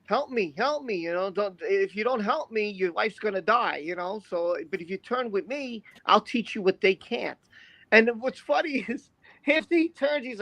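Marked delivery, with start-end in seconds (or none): 0.0-7.4 mock Palpatine. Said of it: "he was playing, like, you know, possum".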